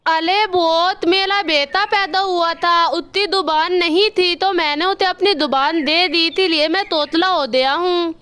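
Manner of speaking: lisped, "अथा दो तल" for "अच्छा तो सर"; lisping crow. Acted. Kalu crow to the doctor, lisping after the surgery. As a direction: say "थाता" with a childlike lisp. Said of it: "ये तुम कैसे बोल रहे हो?".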